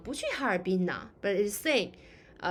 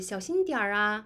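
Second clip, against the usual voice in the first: softened. Shown as a demonstration. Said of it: "if you want to soften the tone".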